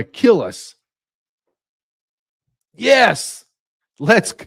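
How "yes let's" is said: mock eager yes. Mocking eager hawk.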